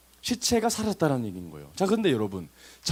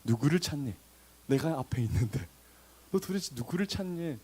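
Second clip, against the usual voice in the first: playful bemusement; 6 dB quieter than usual. Acted. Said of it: "예수님 진짜 재밌으십니다".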